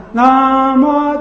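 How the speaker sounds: 南无 run together as one smooth beat; 南无连成一拍; two syllables joined. Shown as a demonstration. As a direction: say 南无 as a single flowing unit. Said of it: "就随时带过去了".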